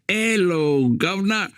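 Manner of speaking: high-pitched, imitated "'ello guv'nor" call; mock loud greeting. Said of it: "survey it and say".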